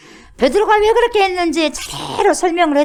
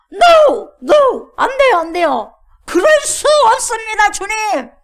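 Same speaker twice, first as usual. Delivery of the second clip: much higher, loud pleading refusal; Peter refusing; 9 semitones higher, 8 dB louder, slower than usual. Acted. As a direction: whine like a stubborn servant saying no. Peter refusing the Lord, acted. (주님께 높고 크게 애원하듯 거절하며)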